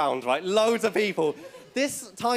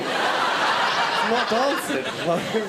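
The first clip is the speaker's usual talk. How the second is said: drawn-out protest; much slower than usual. Retold or imitated. Retorting to the bouncer, drawn out.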